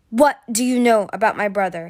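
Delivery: loud stern demand. Acted. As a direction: demand an answer, hard. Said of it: "he demanded".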